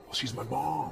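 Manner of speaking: put-on soft, small boy's voice; lightly voiced little boy stating the obvious; little boy in character. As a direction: drop it quietly like a matter-of-fact kid. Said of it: "that was done in character".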